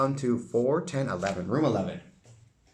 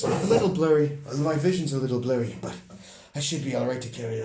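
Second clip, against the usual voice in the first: elf voice; faster than usual. Acted. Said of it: "I gotta get my elf voice".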